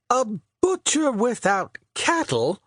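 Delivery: high theatrical Shakespeare voice; Shakespeare crying out. A narrator's reading. Shakespeare scoffing at his friend's clumsy line. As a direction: scoff it out as the grand playwright. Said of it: "cried Will Shakespeare".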